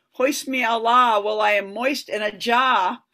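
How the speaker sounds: put-on Boston accent. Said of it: "did she have a Boston accent?".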